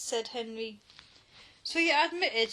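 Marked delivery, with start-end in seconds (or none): 1.6-2.5 higher, triumphant accusing shriek. A narrator's reading. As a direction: pounce on him with it. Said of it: "shrieked Margaret".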